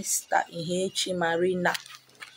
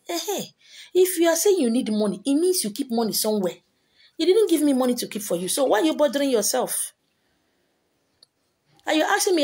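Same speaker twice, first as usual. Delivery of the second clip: exasperated; 5 semitones higher, faster than usual. Real, not acted. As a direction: pitch jumps up, scolding in disbelief. Exasperated rebuke of money seekers.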